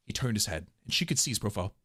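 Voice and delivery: low, soft narrator voice; story narration. A narrator's reading. Narrator describing him turning his head, hushed storytelling. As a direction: drop low and read it softly.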